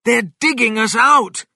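high, loud, panicked warning; urgent alarmed yell; shouted alarm. Acted. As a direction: shout a warning to your family. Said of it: "he shouted".

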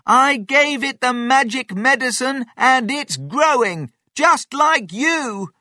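high, loud, thrilled announcement; eager boy calling out; excited shouting. A narrator's reading. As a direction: shout proudly up to Grandma. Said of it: "George shouted".

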